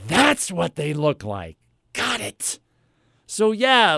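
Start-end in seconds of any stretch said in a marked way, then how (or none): 0.1-1.6 slow, drawn-out echo of the remark; mock realisation. Customer echoing clerk's obvious tip, slow mock wonder. 1.9-2.6 mock understanding. Mock thanks for obvious tip.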